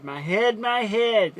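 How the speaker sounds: put-on a touch of a child's pained cry, rising; mildly voiced sick boy clutching his head; light mock cry of pain; complaining boy. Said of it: "he was complaining".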